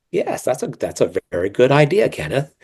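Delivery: sugary, professional meeting agreement; a hint of a fake-polite office voice. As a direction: sound overly pleasant for the boss. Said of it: "that's how I would sound".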